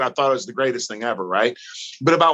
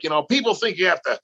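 imitated German accent, raised pitch; higher-pitched mock German accent; thick German accent; 5 semitones higher, faster than usual. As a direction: mimic a German-accented wrestling coach. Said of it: "he's got this thick German accent".

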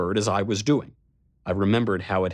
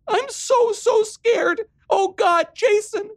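high, louder, sobbing fear; crying; 5 dB louder, much slower than usual. Acted. Riley crying to her brother on the phone. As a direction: sob it out, terrified. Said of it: "I could hear her crying".

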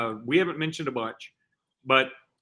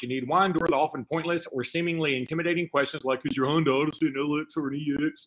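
Rock Auto voice. Acted. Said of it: "There's that voice".

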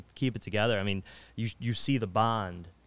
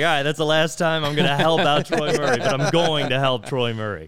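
booming, hammed-up vow to himself; louder, half-joking declaration; loud mock resolve; 5 semitones higher, 9 dB louder than usual. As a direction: bellow it like a grudging teammate. The speaker retelling his reaction.

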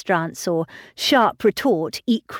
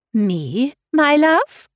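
higher, louder startled question; surprised cry; 7 semitones higher, 4 dB louder, much slower than usual. A narrator's reading. Wife startled at hearing her name, higher and louder. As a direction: catch it suddenly, startled. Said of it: "cried his wife".

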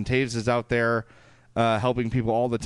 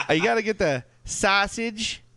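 thick Chicago accent, pitched up; 9 semitones higher than usual. Shown as a demonstration. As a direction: ham up a Chicago sports fan. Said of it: "how to do a Chicago accent".

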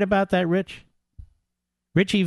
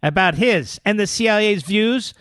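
measured, projected article reading; news read. Real, not acted. Radio host reading breaking story aloud, emphatic news read. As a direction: read it out point by point.

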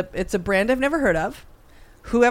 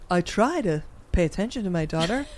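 soft mock mom; 2 semitones lower, 6 dB quieter than usual. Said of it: "then the mom is like".

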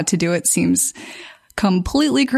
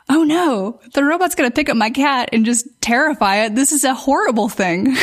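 mock alarm; 4 semitones higher than usual. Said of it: "And I'm like".

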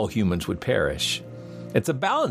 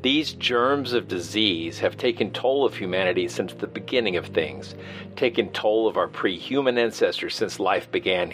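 reading a classic novel aloud; measured literary narration; dramatic reading. Acted. Host reads Wells passage aloud.

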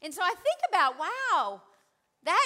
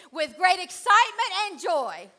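louder, joyful call; excited; 6 dB louder than usual. Shown as a demonstration. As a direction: say it with real excitement. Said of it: "Yes, that's better".

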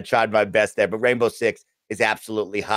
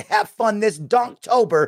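high, slow, drawn-out sign-off; mock mysterious; 10 semitones higher, slower than usual. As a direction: stretch it out like a spooky tease. Spooky sign-off for Donktober.

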